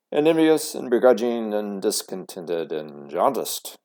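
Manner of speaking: a father's mock outrage; indignant father. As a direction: pile on the words to cheer her up. Father lists insults indignantly.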